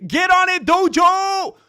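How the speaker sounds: loud, high rallying call; a real shout urging him on. Real, not acted. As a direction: hype up Dojo to hurry. Calling out to the chat.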